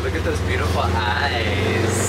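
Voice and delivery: doting pet talk. Real, not acted. Cooing over the found baby yak.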